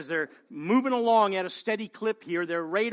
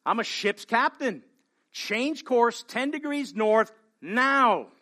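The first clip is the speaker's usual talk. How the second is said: mock bellow; 3 semitones higher, slower than usual. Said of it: "bellows the reply".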